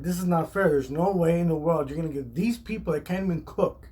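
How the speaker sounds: retold argument, incredulous at the grade; getting mad. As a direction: argue it's unfair, pitch lifted. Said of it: "starting to get loud with Chef Damiano".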